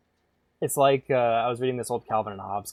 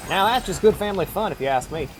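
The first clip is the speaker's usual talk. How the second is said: mock redneck twang; terrible redneck accent; 7 semitones higher than usual. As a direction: do a bad Southern good-ol'-boy accent. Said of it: "That was also a terrible accent".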